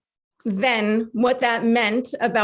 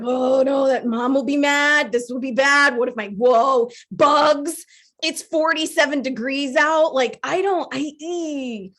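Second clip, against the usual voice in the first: mock fretting; 2 semitones higher, slower than usual. Acted fretting over getting naked.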